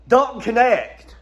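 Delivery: slow savouring. Real, not acted. Savouring the player's name.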